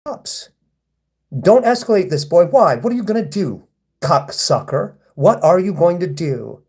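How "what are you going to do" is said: baiting taunt. Real, not acted. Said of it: "I'm baiting you right now".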